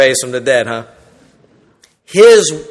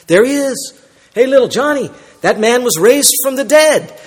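put-on pointing out to child; 7 semitones higher than usual. Parent pointing out Lazarus to child.

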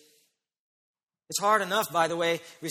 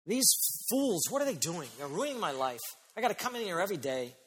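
hot and angry; 3 dB quieter than usual. Acted. Worker complaining about colleagues at work, mock angry. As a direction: grumble like a fed-up worker. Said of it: "You get hot and angry at work".

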